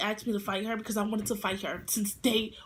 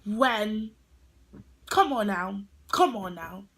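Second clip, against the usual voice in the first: challenging; 2 semitones lower, 4 dB louder, slower than usual. Retold or imitated. Challenging girl to fight.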